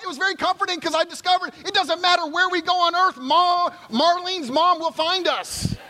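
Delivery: milk the joke about mom; preacher playing up the mother-in-law joke; building comic excitement. Real, not acted.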